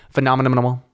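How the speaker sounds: "Phenomenal" with extra syllables, phe-no-me-no-menal; joke pronunciation. Pretend. Host jokes about Canadian dialect, "Phenomenal" padded with extra syllables. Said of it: "how we say phenomenal in Canada".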